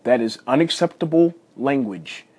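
lightly acted stern father; stern dad voice. Dad hiding his laughter from his son, mock stern. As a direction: lay down the rule, mildly stern dad. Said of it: "stern dad voice".

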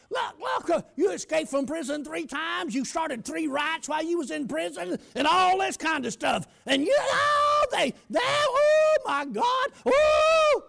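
high, loud, slowing panicked wail; frantic mother. Retold or imitated. Mother listing his escapes, rising to a frantic high wail. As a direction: cry out in alarm like a distraught mom.

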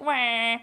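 token cartoon crying noise; half-hearted fake bawl; mock wail. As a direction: imitate a crying dad with one wah. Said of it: "Dad starts crying".

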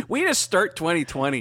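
talking through laughter; joking while laughing. Real, not acted. Joking they're the worst.

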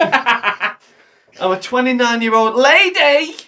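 slow drawn-out put-on line; imitating the pony. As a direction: say it slowly like her friend does. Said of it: "as the pony likes to say".

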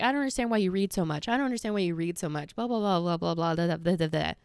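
fast, droning parody of naggers; dismissive mimicry. Imitating people who question her reading, dismissively. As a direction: rattle it off, dissolving into blah-blah.

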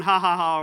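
put-on loud playful "ha, ha, ha" like kids squealing; hammed-up children's yelling laugh; mock kid shrieks. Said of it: "they're screaming and yelling".

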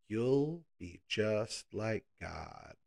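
very slow, drawn-out promise; slow tempting serpent. Acted. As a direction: linger on every word, luring her. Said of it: "He says".

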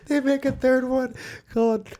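way up high, squeaky and goofy. Pretend. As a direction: pitch it up into a silly squeak. Joking about sequels, squeaky voice.

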